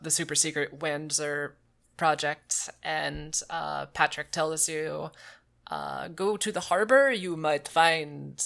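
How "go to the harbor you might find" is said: vague, badly faked foreign accent, possibly French; unidentifiable put-on accent. Informant sending player to the harbor, dubious put-on accent. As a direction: put on an uncertain, wandering French-ish accent. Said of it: "I don't know what this accent is".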